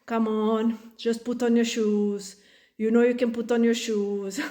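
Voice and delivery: even, coaxing tone held back; forced patience. Retold or imitated. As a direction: coax the child calmly while holding it together. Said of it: "when you try and be patient".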